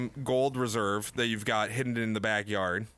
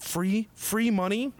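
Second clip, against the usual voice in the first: gleeful; 8 semitones higher, slower than usual. Pretend. Gloating over stimulus money.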